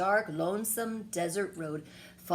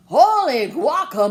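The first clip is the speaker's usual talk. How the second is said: loud, higher burst of surprise; exclaiming; 7 semitones higher, 15 dB louder than usual. A narrator's reading. Skippy startled by his reflection, loud amazed exclamation. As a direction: gasp it out at the mirror. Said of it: "exclaimed Skippy John Jones".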